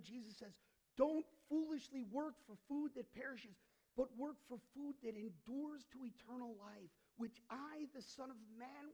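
loud, high full-force sermon; preaching. Acted.

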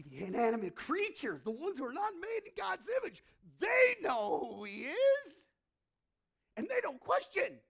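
preacher proclaiming creation's obedience at top voice; full-force preaching shout. Real, not acted. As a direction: shout it from the pulpit.

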